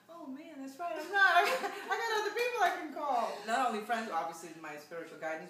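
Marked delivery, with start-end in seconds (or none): 0.1-3.3 sudden realization. Retold or imitated. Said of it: "I'm like".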